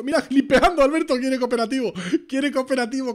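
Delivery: high, animated, with a laugh; amused excitement. Real, not acted. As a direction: tell your partner in delighted disbelief. Amused commentary on a player's reaction.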